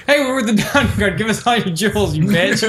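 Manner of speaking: mock a hold-up with laughter creeping in; imitated bandit demand. Player retelling the robbery as the Diamond Guard, playful mock demand. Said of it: "He's like".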